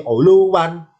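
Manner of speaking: ULUWAN with long high "luu", then "wan"; two separate wawu. Shown as a demonstration. Teacher shows both wawu apart, long "luu". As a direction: break ULUWAN after a held LU. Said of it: "wawu yang dua ini diputus".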